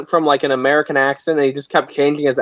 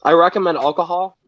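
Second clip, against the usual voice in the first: light country accent; Southern-tinged country accent, lightly worn. Real, not acted. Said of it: "Beef has a very country accent".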